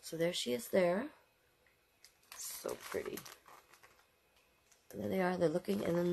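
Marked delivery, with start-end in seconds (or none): 2.3-3.2 very low, soft sigh of wonder; hushed admiration. Real, not acted. Reader admiring the picture in a hushed voice. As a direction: breathe it out in awe.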